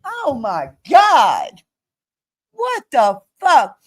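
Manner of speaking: real drawn-out exasperation; fed-up, incredulous protest; exasperated outburst. Real, not acted. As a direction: stretch it out in disbelief.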